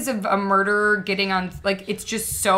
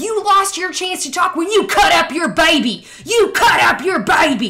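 put-on high, loud screaming in a southern accent; 9 semitones higher, 8 dB louder than usual. Retelling a prosecutor screaming at a mother on the stand: imitating a screaming southern prosecutor.

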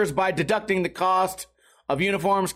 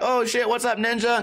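put-on, higher, super nice, friendly, polite voice; 5 semitones higher than usual. Retelling a greeting in a Twitch chat: imitating Gary Rogers, super nice and polite. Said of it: "Just super nice, polite guy".

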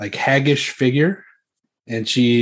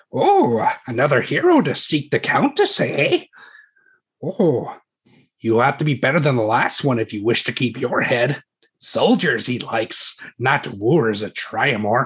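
hag voice, swooping and sing-song. Voicing a hag who greets a hero seeking the countess: voicing a hag. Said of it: "the hag kind of, uh, says to you".

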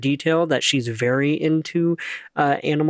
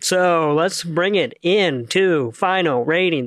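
stiff, robotic, mechanical delivery; 2 semitones higher than usual. Moving the discussion on to final ratings, talking like a robot. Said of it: "I don't know why I'm talking like a robot".

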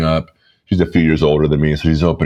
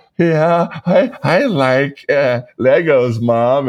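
mock very high, very slow, holding back tears; 10 semitones higher than usual. Retelling answering mom about a gift: imitating holding back tears. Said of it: "as I'm trying to hold back tears".

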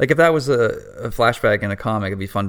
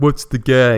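loud, goofy gangster puppet voice; 4 semitones higher, 5 dB louder than usual. Retelling a scene where a character mimics the puppet, Scarface impression. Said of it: "she's even mimicking him like".

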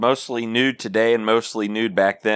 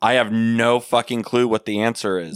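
ordinary delivery

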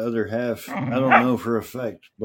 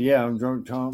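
normal talking voice

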